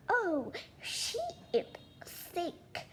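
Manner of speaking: high sly witch voice, fading to a breathy whisper. Acted. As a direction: play the scheming witch, dropping to a hiss. Evil witch lies to the king.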